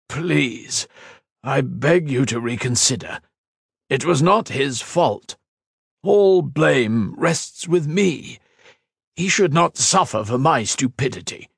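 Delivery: a desperate man begging the council to spare his creation; pleading scientist. A narrator's reading. Tamar pleading before council.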